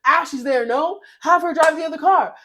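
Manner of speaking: high, rising imitation; mock indignant retort. Storyteller imitating drunk friend's retort on the phone, mock indignant.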